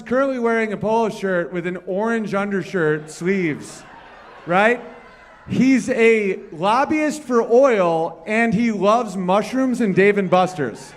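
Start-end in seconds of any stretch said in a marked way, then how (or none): 5.5-10.9 drawn-out hype yell about Dan; slow hype shout. Real, not acted. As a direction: sell him to the room like a ring announcer. Hyping up Dan to crowd.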